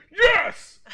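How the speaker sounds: a high, loud squeal of joy; imitating kid squeal. Dad imitating his son squealing over a wrestler, overjoyed. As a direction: squeal it like an overjoyed little boy. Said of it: "he's like".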